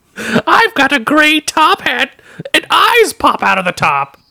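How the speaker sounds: fake menacing villain voice. Joking with a co-host about a cartoon's next episode, scary Joker voice. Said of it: "that's the scariest Joker voice yet".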